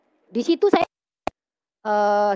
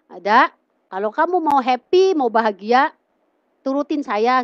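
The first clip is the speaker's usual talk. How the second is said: mildly pushy persuasion, a little louder and higher; raised, urging retold pitch; retold coaxing; 3 semitones higher, 4 dB louder than usual. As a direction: lightly act out someone talking her into it. Friend coaxing her, retold.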